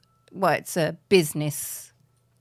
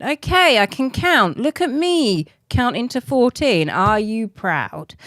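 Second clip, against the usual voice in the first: mock-proud; 4 semitones higher than usual. Mock boasting after counting.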